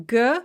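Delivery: lone "g" syllable said guh; isolated syllable "g", reduced vowel; schwa syllable. Shown as a demonstration. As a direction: say "g" with a short uh after it. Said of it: "the first O is pronounced a".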